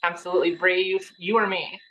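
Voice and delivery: ordinary talk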